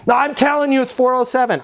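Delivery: high, insistent mock anger; imitated angry complaint, high-pitched; angriest resident. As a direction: play an irate resident insisting, pitch jumped up. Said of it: "Even the angriest resident".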